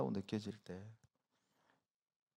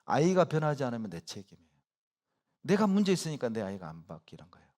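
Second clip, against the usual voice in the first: ordinary talk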